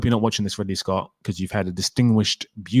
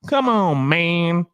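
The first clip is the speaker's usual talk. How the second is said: much higher, pleading mock refusal; hammed-up fed-up fan, higher and higher; exasperated protest; 8 semitones higher than usual. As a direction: whine it like you can't believe it. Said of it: "I was like".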